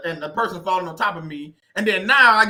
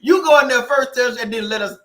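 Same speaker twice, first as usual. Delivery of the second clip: 1 laughing urging; 4 semitones higher, 6 dB louder than usual. Retold or imitated. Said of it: "what the people used to say".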